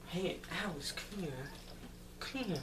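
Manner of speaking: soft, high-pitched beckoning; coaxing call. Real, not acted. Speaker to Alice mid-story, soft high coaxing call. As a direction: break off to softly coax someone over. Aside calling someone over.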